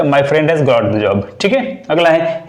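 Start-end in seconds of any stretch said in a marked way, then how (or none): 0.0-1.4 slow demo. Shown as a demonstration. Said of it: "तो क्या जाएगा".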